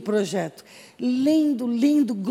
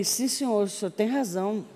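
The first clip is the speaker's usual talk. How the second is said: softer, meek retold apology; humbled submission; 6 dB quieter than usual. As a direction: give in meekly and softly. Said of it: "A Nauzira se humilha". (humilde e submissa, voz baixa)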